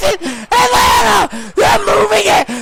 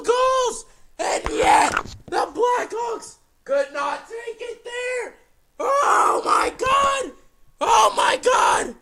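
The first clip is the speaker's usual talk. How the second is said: tag; 8 dB quieter than usual. Real, not acted. Stunned after Blackhawks fall short.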